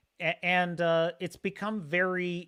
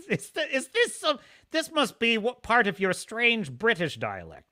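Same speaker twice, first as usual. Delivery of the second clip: playful teasing; 5 semitones higher than usual. Real, not acted. Teasing a British viewer.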